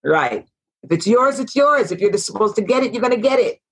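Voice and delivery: lively Jamaican lilt on the proverb; Jamaican accent. Retold or imitated. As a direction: say it like a Jamaican saying. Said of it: "Your Jamaican accent is impeccable".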